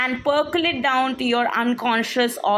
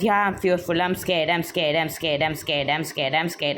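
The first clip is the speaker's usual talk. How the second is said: fading, lower mock-scared chant; fearful self-talk; 6 semitones lower than usual. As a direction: mumble it like a frightened inner voice. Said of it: "you are telling yourself".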